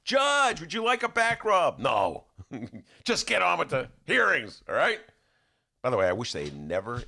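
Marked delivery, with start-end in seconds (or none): 0.0-1.8 much higher, fawning offer; imitating Biden. Biden imitation fawning over the judge, higher. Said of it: "he'd be so". 1.8-5.0 gruff Thomas. Retold or imitated. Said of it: "Thomas was the scruff guy".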